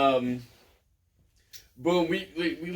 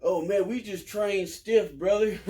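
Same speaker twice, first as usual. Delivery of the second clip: slow, casual voice for the manager's excuse; easygoing mock manager; laid-back manager; 4 semitones higher, slower than usual. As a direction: drawl it out like a shrugging old-school manager. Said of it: "And he was like".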